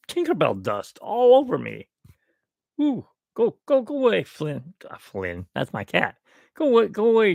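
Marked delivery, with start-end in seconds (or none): 2.8-4.7 shooing the cat. Real, not acted. 6.6-7.3 shooing away. Real, not acted. Shooing the cat again.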